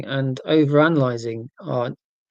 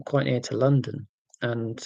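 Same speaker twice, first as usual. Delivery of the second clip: ordinary talk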